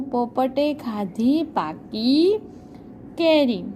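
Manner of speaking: slow, drawn-out lesson title; slow title read. Shown as a demonstration. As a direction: read the title slowly, word by word. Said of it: "શું કીધું છે?".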